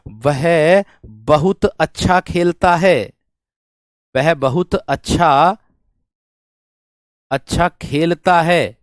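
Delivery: very slow, word-by-word reading; slow dictation. Shown as a demonstration. Teacher dictates the example very slowly to the class. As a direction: dictate slowly with long pauses. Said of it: "देखिएगा".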